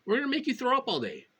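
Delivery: high, fast taunting tormentor; mock villain threat. Mimicking the tormentor threatening to make her sick. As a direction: sneer it like a gleeful torturer.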